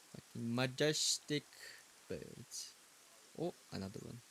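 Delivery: hushed bird watching. Pretend. Joking bird watching whisper.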